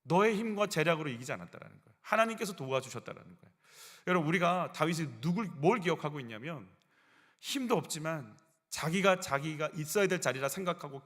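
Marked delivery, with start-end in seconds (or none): none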